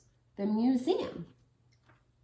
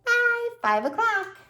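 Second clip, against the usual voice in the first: counting up; 9 semitones higher than usual. Shown as a demonstration. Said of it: "Remember that five?".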